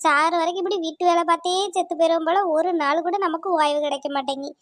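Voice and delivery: a tired village wife moaning about her lot; grumbling housewife. Acted. Overworked wife complaining alone about chores, weary grumble.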